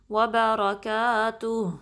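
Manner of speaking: slow chant stopping on a clear ha sound; slow recitation ending on a clear ha. Shown as a demonstration. Teacher demonstrating a pause on ha for students. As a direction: stop on the ha and let it be heard. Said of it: "صرف ہا کی sound دیں".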